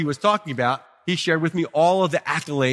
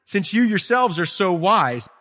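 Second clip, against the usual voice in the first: sarcastic; 3 semitones higher, slower than usual. Retold or imitated. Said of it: "Notice the sarcasm there?".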